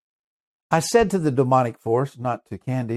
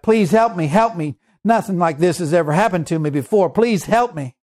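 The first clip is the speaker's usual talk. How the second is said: higher retold frightened cry for help; crying out in fear; 4 semitones higher than usual. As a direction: imitate her begging, pitched up and urgent. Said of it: "Candy was crying out".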